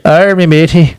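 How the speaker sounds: hearty "arr, matey" pirate. Pretend. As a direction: growl it like a cartoon pirate. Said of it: "talk like a pirate".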